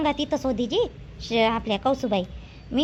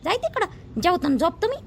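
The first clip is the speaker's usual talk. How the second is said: mock yell; 5 semitones higher than usual. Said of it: "जोरात ओरडला बाई".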